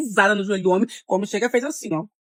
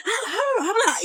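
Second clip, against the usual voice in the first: mocking laugh; 11 semitones higher, 4 dB quieter, much slower than usual. Attacker laughing while dragging her.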